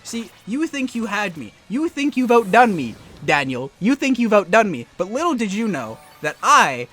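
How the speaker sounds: loud, grandstanding taunt; mock villain monologue. Player telling Daniel he saw through the plan, mock grandstanding. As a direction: gloat theatrically, punching key words loudly.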